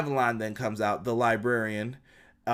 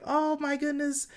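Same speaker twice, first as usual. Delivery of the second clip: fawning gasp; 13 semitones higher than usual. Retold or imitated. Reba fawning over Jericho.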